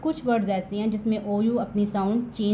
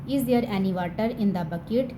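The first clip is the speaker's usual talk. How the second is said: slow, even, word-by-word reading; slow model sentence; much slower than usual. Shown as a demonstration. Teacher reads the English sentence slowly to students. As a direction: read it out slowly for the class. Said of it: "teacher reads model sentence".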